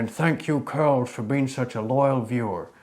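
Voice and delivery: high cowboy outro voice. Shown as a demonstration. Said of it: "do the outro and the cowboy voice".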